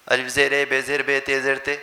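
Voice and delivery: zer read as Urdu e sound, بے زیر بے; teacher showing the Urdu habit; Urdu-style zer. Shown as a demonstration. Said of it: "ہم اردو میں زیر پڑھتے ہیں اس کو".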